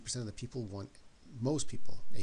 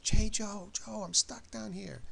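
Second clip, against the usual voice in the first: much higher, louder call, slowing down; calling out to a friend; 12 semitones higher, 7 dB louder, slower than usual. Acted. Man stuck in a grave calls his buddy Joe, high drawn-out yell.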